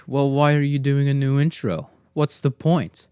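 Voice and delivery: light mock listener voice; imagined listener. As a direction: voice a puzzled listener. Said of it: "you might ask".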